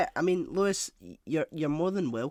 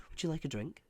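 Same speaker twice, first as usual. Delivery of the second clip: calm host; 2 semitones higher, 4 dB quieter than usual. Retold or imitated. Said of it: "really calm when people come over".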